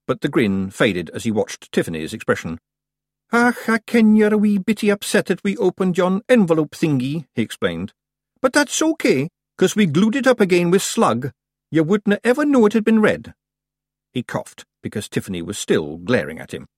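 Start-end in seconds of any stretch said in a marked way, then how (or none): 3.3-7.3 high, loud little Scots warrior, explaining himself; pitched-up Scots chief, appeasing; placating Scottish clansman. A narrator's reading. Rob placating Tiffany. 8.4-13.3 high, loud little Scots warrior, explaining himself; pitched-up Scots chief, appeasing; placating Scottish clansman. A narrator's reading. Rob placating Tiffany.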